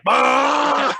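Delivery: high, loud burst of a roar; mock yell. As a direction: imitate a scary uncle yelling at kids. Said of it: "yell really loud".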